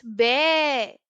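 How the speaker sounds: slow imitated bleat; teacher imitating a sheep. Shown as a demonstration. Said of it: "How does the sheep go".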